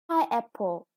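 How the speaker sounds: pineapple with PINE stressed; teacher modelling the word pineapple. Shown as a demonstration. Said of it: "the stress is on the first syllable".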